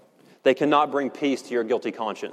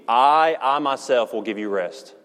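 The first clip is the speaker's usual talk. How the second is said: "I, I myself" doubled with weight on each "I"; emphatic I. Shown as a demonstration. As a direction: press the doubled "I" before "myself". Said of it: "He is emphasizing it".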